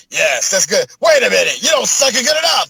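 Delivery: high, shouted cheesy dub voice; overacted anime dub. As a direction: ham it up like a bad English dub. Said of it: "notice the dub voice I just put on".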